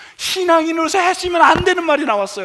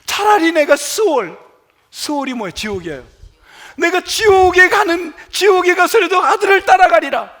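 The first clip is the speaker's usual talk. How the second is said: upset outcry; 4 semitones higher, 3 dB louder than usual. Retold or imitated. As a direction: cry out Jacob's grief and anger. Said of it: "화가 나니까, 너무 속상하니까".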